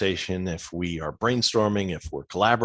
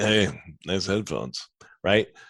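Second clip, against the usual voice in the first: insincere, sardonic, cynical, sarcastic tone. Showing how a positive remark can be read cynically: cynical reading. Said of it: "you could read them cynically".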